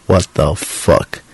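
slow, drawn-out stunned bro reaction; amazed friend. Retold or imitated. Friend reacting to his stand-up opener, slow and stunned. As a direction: stretch it out like a blown-away buddy. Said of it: "Every single one of them has been like".

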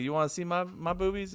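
mock coy granny voice, rising high; old fat lady voice. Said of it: "old fat lady".

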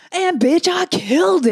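high, loud bragging burst; triumphant. Real, not acted. Bragging to her friend about finally riding well, excited and loud. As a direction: crow about nailing the bunny hill.

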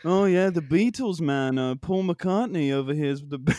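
attempted British drummer impression; lightly voiced mock-British bandmate, falling in pitch; the band's drummer. Trying out a bandmate from a famous band for the co-host, tentative impression. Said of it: "I'll try to do the drummer".

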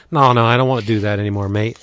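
quick, lightly put-on British accent; a hint of a hammed-up British accent. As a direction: toss it off in a half-baked British accent. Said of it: "that was my British accent".

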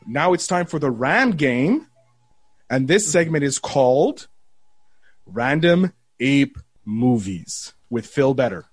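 slow announcer promo voice. Shown as a demonstration. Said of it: "when you promote it".

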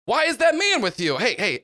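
mildly voiced wary shop guy; gruff suspicious mechanic. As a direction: Tool Boy confronts the little girl. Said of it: "Tool Boy turns around and goes".

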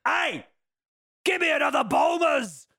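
high-pitched mock Irish dad shouting; Irish accent. Dad demanding another Bulmers from his son, mock Irish accent. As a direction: holler it in a put-on Irish accent. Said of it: "that's my Irish accent".

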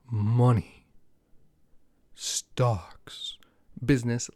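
each word breathed out alone, slow and hushed; dramatic whisper. Acted. Host teasing his money segment to viewers in a dramatic whisper.

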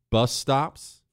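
ordinary talk

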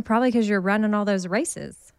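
a slip of Southern twang on races; country accent. Real, not acted. The speaker chatting with Kat, a Texas accent slipping out. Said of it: "You just sounded so country".

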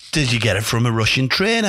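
a hint of the old boss's accent, rising question; Sir Bobby. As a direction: repeat the question in the gaffer's accent. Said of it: "I'll do his accent".

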